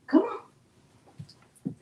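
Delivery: unvoiced come on; soft breathy urging; whispered coax. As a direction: whisper to the dog. Coaxing dog.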